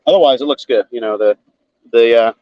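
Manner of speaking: talking around a flashlight in mouth. Real, not acted. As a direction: mouth held open by a flashlight. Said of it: "as I talk to you with a flashlight in my mouth".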